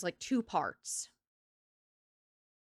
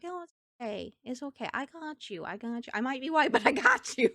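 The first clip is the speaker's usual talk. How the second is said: reassuring; 3 semitones higher than usual. Retold or imitated. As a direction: gently comfort a worried client. Reassuring Spanish-speaking salon clients.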